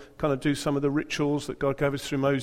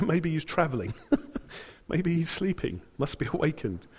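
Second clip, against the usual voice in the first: laughing; 4 semitones higher than usual. Real, not acted. Joking taunt while laughing.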